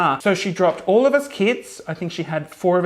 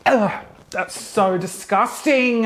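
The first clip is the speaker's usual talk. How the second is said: disgusted; 2 semitones higher, slower than usual. Real, not acted. Reacting to gross grandma story.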